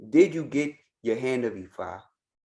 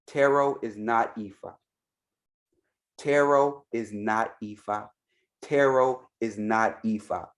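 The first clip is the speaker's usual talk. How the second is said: "Tarot is not Ifa" spaced out, each word set down firmly; emphatic repetition. Real, not acted. Telling followers tarot is not Ifa, "Tarot is not Ifa" said firmly and evenly. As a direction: say "Tarot is not Ifa" deliberately, with a pause before each repeat. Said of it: "why I'm emphasizing that".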